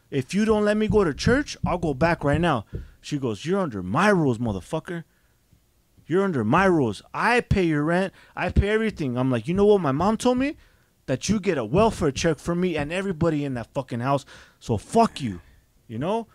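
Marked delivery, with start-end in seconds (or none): 0.1-2.6 put-on loud defiant teen threat; retold defiant yell. Teen yelling back at aunt. 3.4-9.2 loud stern scolding aunt; retold angry scolding. 9.5-15.4 retold angry retort. Teen snapping back at aunt.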